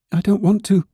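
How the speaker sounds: high-pitched little rabbit voice; reluctant little rabbit. A narrator's reading. Toy rabbit hiding lack of legs, high reluctant voice. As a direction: refuse in a small, high voice.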